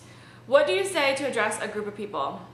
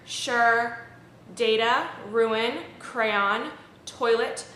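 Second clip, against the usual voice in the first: reading the word list; slower than usual. Shown as a demonstration. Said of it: "this is the accent tag".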